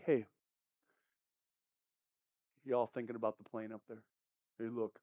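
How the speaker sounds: low, soft, offhand remark; passive. Shown as a demonstration. Birder mentioning something overhead, passive and casual. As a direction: casually point it out, very quietly. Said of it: "not just a little passive".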